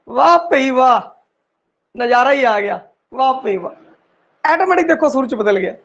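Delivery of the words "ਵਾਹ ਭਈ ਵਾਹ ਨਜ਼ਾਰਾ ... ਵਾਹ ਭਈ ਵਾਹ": mild admiring ਵਾਹ ਭਈ, tone in place of h; how people say it. Shown as a demonstration. Teacher to students, imitating how people naturally say ਵਾਹ. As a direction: people exclaiming ਵਾਹ naturally, lightly voiced. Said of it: "ਲੋਕ ਬੋਲਦੇ ਆ".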